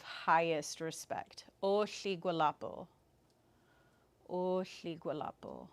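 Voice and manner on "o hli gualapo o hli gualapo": honorable greeting. Shown as a demonstration. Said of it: "the very honorable way".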